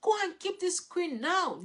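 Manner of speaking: scolding parent. Retold or imitated. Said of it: "You start to tell the child".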